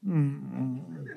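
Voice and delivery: soft, low muffled hum sobs; quiet crying hums; imitated sobs. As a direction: hum the way she sobbed. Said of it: "ela chorando".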